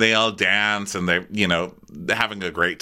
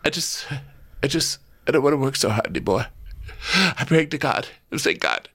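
higher, fast rambling worried voice; fretful Vicky; 5 semitones higher, faster than usual. Retold or imitated. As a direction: ramble anxiously like a tipsy worrier. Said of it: "she's like".

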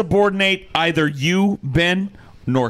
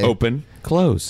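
imitating fast pace; 6 semitones lower, slower than usual. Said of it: "why is he going so fast".

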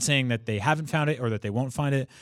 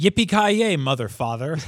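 movie hero catchphrase; 5 semitones higher, 5 dB louder than usual. Retold or imitated. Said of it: "the T N T version where it's like".

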